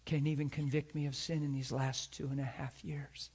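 whispered challenge; hushed. Retold or imitated. Preacher retelling his quiet words to the mocking coworkers. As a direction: lean in and whisper it. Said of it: "and I said".

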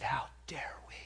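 a hushed, intense whisper; whispered rebuke. Retold or imitated. Preacher rebuking the funeral crowd in a whisper. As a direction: breathe it as a stunned rebuke. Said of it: "And I said".

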